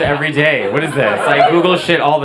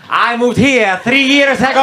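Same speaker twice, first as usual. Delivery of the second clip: higher, sing-song Italian lilt; mock Italian accent; 9 semitones higher, 3 dB louder than usual. Italian mocking how Italians say where they're from, mock Italian accent.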